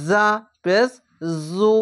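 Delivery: জু with a buzzing z sound. Shown as a demonstration. Teacher showing pupils the buzzing জু. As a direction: let the z in জু hum. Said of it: "ঝিনঝিনা করে পড়তে হয়".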